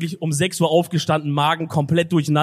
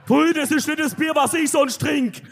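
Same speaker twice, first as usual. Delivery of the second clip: disgusted; 6 semitones higher than usual. Real, not acted. Disgust at the beer.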